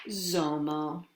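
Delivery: hushed whispered name; softly whispered Zomo. Acted. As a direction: breathe the name like a secret. Storyteller whispers the hero's name.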